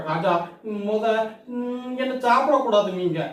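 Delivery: frightened pleading. Acted. Goat begging the lion king not to eat him, high and whiny. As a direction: beg for your life.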